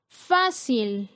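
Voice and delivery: "Fácil" with the force on "Fá"; stress on first syllable. Shown as a demonstration. Teacher shows where the strongest syllable falls, "Fácil" stressed on "Fá". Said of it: "la sílaba con mayor fuerza es fa".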